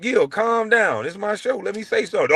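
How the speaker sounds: retold high-pitched plea to calm down; pleading retort. Host telling Gil to calm down on his show, high pleading retort. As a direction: stretch the first words, voice up high, reining him in. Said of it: "I'm like".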